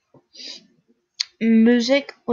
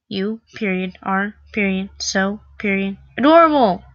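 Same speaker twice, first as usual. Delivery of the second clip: mock reading. Reading out quiz text mockingly.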